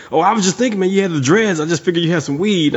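high-pitched drunk-bro imitation; drunk guy. Drunk guy explaining why he asked for weed, mock drunk guy. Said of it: "next to the drunk guy".

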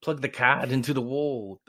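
put-on grandpa's New England accent, R dropped from card. Host recalls grandpa telling him to plug it in, New England accent. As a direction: imitate an old New England relative's accent. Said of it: "my grandpa who was from the New England".

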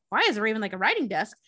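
mock startled Hatter; freaked-out echo. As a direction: snap it back in alarm. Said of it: "he freaks out".

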